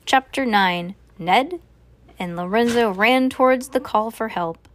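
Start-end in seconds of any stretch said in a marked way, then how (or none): none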